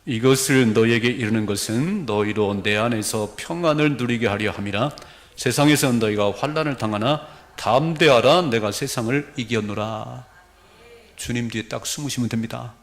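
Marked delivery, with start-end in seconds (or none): 0.0-10.3 slow, solemn congregational Bible reading; scripture reading. Real, not acted. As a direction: read the verse out firmly and deliberately. Reads scripture aloud. (힘 있게 또박또박 성경 봉독)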